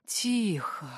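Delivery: breathed out. A narrator's reading. Jar pinning the witch to a tree, hushing her. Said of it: "выдохнул в её испуганное".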